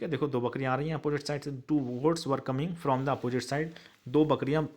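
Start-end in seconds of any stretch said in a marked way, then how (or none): 1.5-3.7 slow dictation. Shown as a demonstration. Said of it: "teacher dictates English answer".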